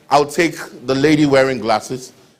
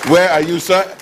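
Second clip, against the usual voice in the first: raised voice, pitched up to carry across the hall; calling out; 4 semitones higher than usual. Real, not acted. MC calls out to the professor somewhere in the audience, raised calling voice. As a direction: call out to someone in the crowd.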